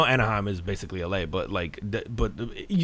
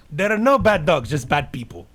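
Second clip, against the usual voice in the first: dog whisperer impression; 5 semitones higher, 4 dB louder than usual. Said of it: "You sound like the dog whisperer".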